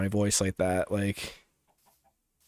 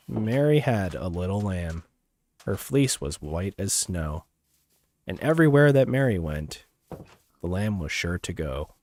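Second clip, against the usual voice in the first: a hint of Alexa reading a rhyme; lightly mock-serious nursery rhyme recital; mock smart assistant; 3 semitones lower than usual. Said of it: "speak like an Alexa".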